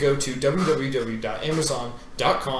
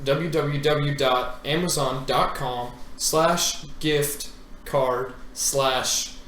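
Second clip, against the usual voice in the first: mock ad read; slower than usual. Mock ad reading fake URL.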